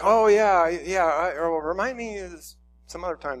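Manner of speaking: loud, high "oh yeah" then trailing off; evasive pastor. Retold or imitated. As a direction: dodge the kid with a breezy excuse. Pastor dodging again.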